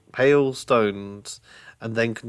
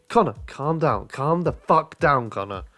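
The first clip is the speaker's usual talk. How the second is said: higher, firm telling-off; insistent; 4 semitones higher than usual. Acted. Sister to fuming brother, insistent hushing. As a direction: insist that he settle down, dropping off on the name. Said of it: "Alex insisted".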